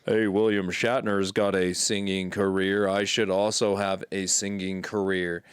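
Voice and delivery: a hint of a solemn Nimoy; lightly voiced Nimoy, low and grave; Leonard Nimoy impression. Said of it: "in my impression".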